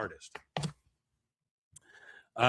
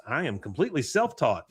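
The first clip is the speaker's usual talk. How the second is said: very happy, proud; 3 semitones higher, 4 dB louder than usual. Retold or imitated. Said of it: "she's very happy about this".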